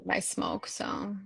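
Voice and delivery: whispered, hushed aside; whispering. Real, not acted. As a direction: drop to a whisper while smoking. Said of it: "I get a little quiet".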